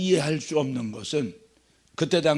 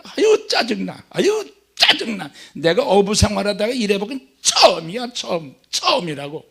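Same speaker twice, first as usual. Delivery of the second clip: annoyed fisherman; 2 semitones higher than usual. Acted. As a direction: vent like nothing ever went this badly. Simon complaining, annoyed.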